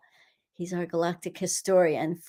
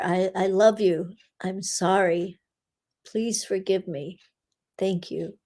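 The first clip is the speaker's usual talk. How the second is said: prayer recital. Acted. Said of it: "as we say that Hopo'ono prayer".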